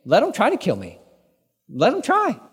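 cocky, daring tone rising to a high "Let 'em try"; mock-brave dare; bravado. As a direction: toss it off like nothing can touch you. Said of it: "this bravado kind of attitude".

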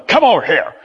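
brisk, firm command; ordering a dog. Acted. Owner orders the dog over, firm call. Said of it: "like we say to our dog".

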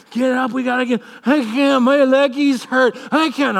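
put-on high, whining little-kid voice; whiny tired kid. Exhausted son whining to dad at Disneyland, high whine. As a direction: whimper that your legs hurt. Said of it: "I'm like".

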